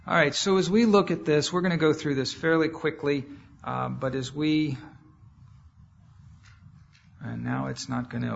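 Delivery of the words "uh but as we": usual speaking voice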